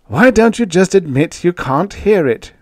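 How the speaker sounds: voiced mock whisper, high and loud; loud stage whisper. A narrator's reading. Retief needles the ambassador in a loud, voiced stage whisper. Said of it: "Retief whispered loudly".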